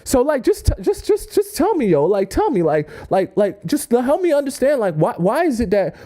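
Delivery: hammed-up jealous boyfriend whine; mock exasperated confrontation. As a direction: demand an explanation in disbelief.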